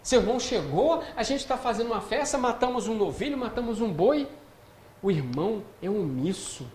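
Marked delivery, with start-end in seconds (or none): 0.0-4.3 eager servant. Acted. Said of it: "ele fala assim".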